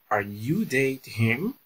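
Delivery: slow, careful repeat of Are you dating him with a rise at the end; teacher repeating the question slowly for students; slow model question. Shown as a demonstration. Slow, clear rising question. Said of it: "Olha só a pergunta".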